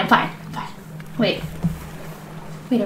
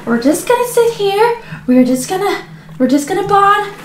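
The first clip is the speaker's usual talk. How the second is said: strained, higher, wavering self-reassurance; panicking; 4 semitones higher than usual. Acted. Mother pretending everything's fine adrift, audibly panicking. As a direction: insist on calm while panicking. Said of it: "Mom, you're panicking".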